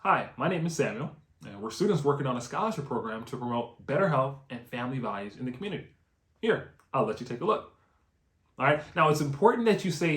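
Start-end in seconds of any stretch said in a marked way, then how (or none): 0.0-7.7 steady, unhurried read of the pitch; slow it down so they can memorize; slower pitch demo. Shown as a demonstration. Trainer reading the script slowly for trainees, unhurried. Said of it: "gonna say it a little bit slower this time".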